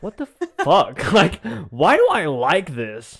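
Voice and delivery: 1 mock bewildered. Acted self-disgust quote.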